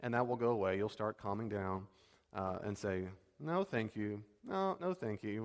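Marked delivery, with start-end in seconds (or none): 3.4-5.4 gentle, smiling refusal; polite smiling no. Pretend. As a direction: decline kindly with a smile. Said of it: "with a smile on your face".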